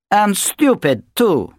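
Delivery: scornful jab. A narrator's reading. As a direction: add the insult with relish. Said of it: "Natasha adds insult".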